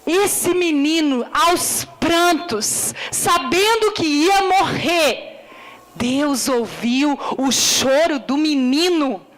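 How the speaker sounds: slow, swelling sermon delivery over music; impassioned preaching. Acted. Preacher retelling the crying boy, slow and swelling. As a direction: lean into each phrase, pleading.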